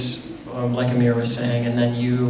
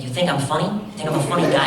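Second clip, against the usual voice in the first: Joe Pesci impression; faster than usual. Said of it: "I love Joe Pesci".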